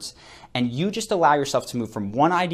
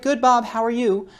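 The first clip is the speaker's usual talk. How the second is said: high, chirpy answer, a little louder; receptionist's cheery reply; 10 semitones higher, 4 dB louder than usual. Retold or imitated. Receptionist Glenda answering Bob in a high chirpy voice. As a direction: play the receptionist answering brightly. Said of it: "your conversation with the receptionist is".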